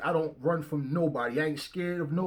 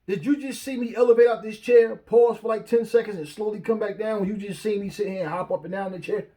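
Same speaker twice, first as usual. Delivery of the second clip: raised, louder mock boast; mock sincere claim; 5 semitones higher, 5 dB louder than usual. To followers, mock-insisting he really elevated. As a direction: pretend to swear you levitated. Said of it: "me just sit here and go".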